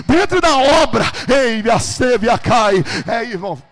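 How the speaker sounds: thundering pulpit storytelling; full-force preaching. Acted. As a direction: drive every phrase out at full volume.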